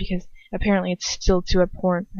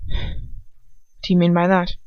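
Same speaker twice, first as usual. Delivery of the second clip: tight, barely moving lips; slower than usual. Acted. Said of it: "his lips barely moving".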